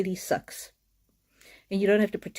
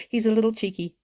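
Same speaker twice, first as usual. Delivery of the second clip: said through a laugh; amused laughing delivery; 4 semitones higher than usual. Real, not acted. Amused by the spirit's cheekiness.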